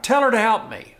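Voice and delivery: loud, high, bossy command; ordering Jesus around. Acted. Martha ordering Jesus to send Mary, loud and bossy. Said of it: "she orders Jesus around".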